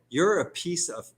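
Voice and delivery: furious rant at a troll; angry insult. Real, not acted. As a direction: spit it at him. Angry rant at critic on stream.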